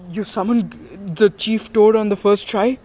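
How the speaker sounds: can't believe what he just saw; amazed. Retold or imitated. Jiraiya to Naruto after the summoning, astonished.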